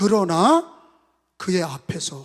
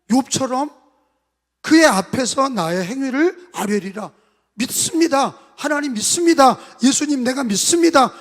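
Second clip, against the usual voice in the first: fervent shout; 5 semitones higher, 7 dB louder than usual. Acted. Shouted confession of faith.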